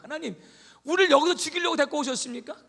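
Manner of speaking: high, loud, aggrieved protest; complaining cry. Retold or imitated. Joshua protesting loudly to God, aggrieved.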